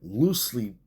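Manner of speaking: "loosely" repeated with a rising-falling swoop for emphasis; stress on loosely. Real, not acted. Preacher repeating his key word to listeners, stressing "loosely". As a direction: punch the first syllable of "loosely". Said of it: "I have to really stress the word loosely".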